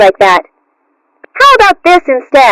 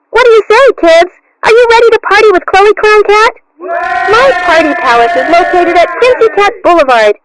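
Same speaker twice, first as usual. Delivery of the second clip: excited announcer shout. Acted. Clown ad hypes her party.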